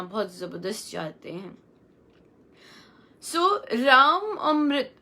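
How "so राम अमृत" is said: slow, drawn-out "राम अमृत" as a pronunciation model; teacher's careful demo. Shown as a demonstration. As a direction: spell out "राम अमृत" slowly, each sound clear. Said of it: "बहुत अलग-अलग तरह से इसका उच्चारण होता है".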